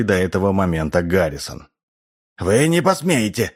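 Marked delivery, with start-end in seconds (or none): 2.4-3.5 high, strained croak of protest; hoarse croak. A narrator's reading. Chester told he will be killed, hoarse croak. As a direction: croak it out in defiance. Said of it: "прокаркал Честер внезапно охрипшим голосом".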